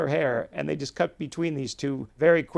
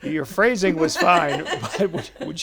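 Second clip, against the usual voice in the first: slow, louder, laughter in the voice; laughing; 4 semitones higher, 5 dB louder than usual. Real, not acted. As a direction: speak slowly while still cracking up. Still laughing at the exchange.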